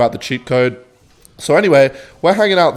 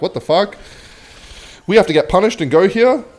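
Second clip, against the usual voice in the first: higher, louder mock outrage; hamming up the kids' indignation; outraged what the fuck; 7 semitones higher, 3 dB louder than usual. Kids protesting their punishment, mock outraged.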